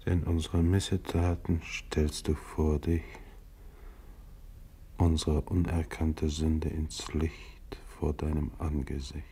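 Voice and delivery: slow, solemn scripture reading; psalm recitation. Acted. Narrator reciting the psalm over the dead, solemn. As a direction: intone it like a prayer.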